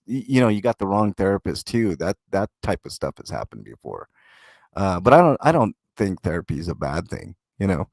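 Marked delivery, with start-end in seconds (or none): 2.0-7.9 talking through a mouthful of burrito; words around a bite of food; mouth full. Real, not acted. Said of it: "I have my mouth full of breakfast burrito".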